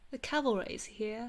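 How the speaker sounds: attempted British accent. Streamer bad at accents, British accent attempt. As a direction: have a go at a British catchphrase. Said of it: "I'm terrible at doing accents".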